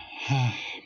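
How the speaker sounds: a short weary sigh; a sigh of a gloomy boy. Acted. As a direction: let out a sigh before answering. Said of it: "Johnny sighed".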